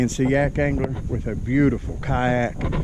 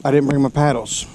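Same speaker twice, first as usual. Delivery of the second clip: frustrated. Real, not acted. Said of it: "I am so freaking frustrated right now".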